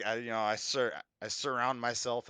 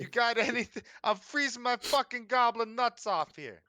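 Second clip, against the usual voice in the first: high, louder freezing goblin; high complaining goblin; 10 semitones higher, 4 dB louder than usual. Acted. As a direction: whine high like a cold goblin.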